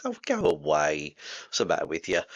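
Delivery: light, low joking brush-off; playful mock dismissal; jovial, friendly. Shown as a demonstration. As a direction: tease a friend, easy and good-natured. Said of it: "it's really quite jovial, quite friendly".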